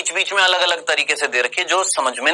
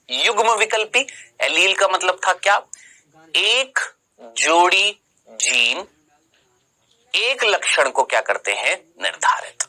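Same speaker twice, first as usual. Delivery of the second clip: slow and gentle. Shown as a demonstration. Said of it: "मैं हौले हौले धीरे धीरे बोलूंगा".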